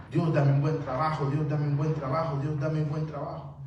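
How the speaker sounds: lightly acted insistent praying, evenly chanted; repeated plea in prayer. Preacher imitates a believer praying for a job, repetitive mild plea. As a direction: plead it over and over in the same tune. Acting out someone praying for work.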